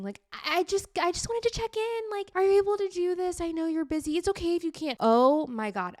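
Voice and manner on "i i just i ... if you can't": much higher, louder, apologetic little voice; over-apologizing woman. Retold or imitated. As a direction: tiptoe around asking, sugary and nervous. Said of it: "women are always, like, over apologizing".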